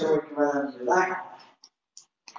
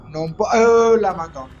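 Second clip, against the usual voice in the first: startled; 3 semitones higher, 5 dB louder than usual. Real, not acted. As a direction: jolt in surprise as the door closes. Door slams shut.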